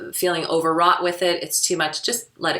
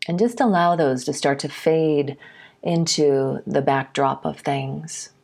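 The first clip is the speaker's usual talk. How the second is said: guided meditation; 2 semitones lower than usual. Real, not acted. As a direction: ease them into settling, phrase by phrase. Leads a meditation.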